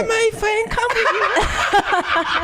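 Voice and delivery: mock Asian accent. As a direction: sushi chef greeting in a mock Asian accent. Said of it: "Do it again".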